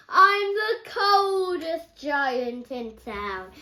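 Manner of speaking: a giant's lament, slow and glum. Acted. George complains to himself, slow and glum. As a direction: drag it out slowly as the cold giant.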